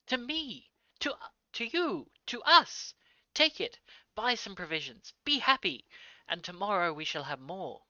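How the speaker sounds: high, loud, elated cries; shouting with delight at a father; joyful shouts. Acted. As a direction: burst out with joy, urging him to take it all. Son joyfully pressing money on father.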